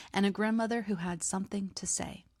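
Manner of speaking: hushed mysterious hook; soft secretive teaser; teasing whisper. Acted.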